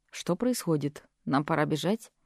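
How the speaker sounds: hushed low whisper; whispered question. Acted. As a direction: lean in and whisper. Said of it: "спросил шёпотом". (Аарон тихо шепчет мне на ухо)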